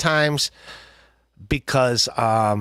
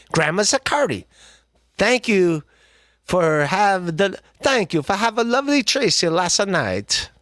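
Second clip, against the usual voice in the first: mock sweet thanks; 5 semitones higher than usual. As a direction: gush like a sweet old lady. Mock grateful broken English.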